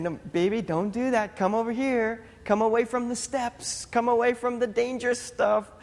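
lightly acted dad repeating warnings, pitch lifting; imitating a parent's singsong pleading; coaxing parent. Retelling repeated warnings to his toddler.

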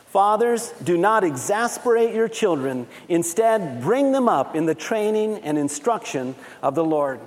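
measured group-reading voice, firmly projected; scripture read aloud. Acted. Pastor reads the verse with congregation, measured and projected. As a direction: lead everyone through the verse in unison.

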